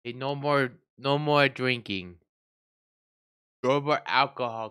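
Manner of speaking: slurring, tipsy voice. Real, not acted. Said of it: "straight up drunk".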